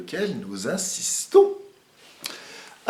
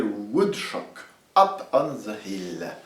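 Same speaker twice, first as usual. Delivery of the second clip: English title read with a French accent; a French violin teacher tries the English title; 4 semitones lower, slower than usual. Shown as a demonstration. Anglais avec accent français. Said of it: "Je ne suis pas sûr de l'intonation de mon accent anglais".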